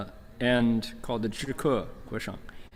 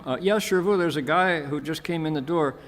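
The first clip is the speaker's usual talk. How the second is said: higher-pitched reply on the phone; raised phone voice; 4 semitones higher, 3 dB louder than usual. Retold or imitated. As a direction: answer your teacher in a raised voice. Reporting to his teacher by phone.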